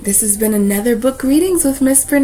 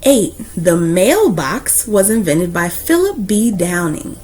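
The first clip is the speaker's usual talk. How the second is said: put-on steady, earnest read-aloud for kids; warm, proud storyteller reading to a class; story narration. Reads a picture book aloud.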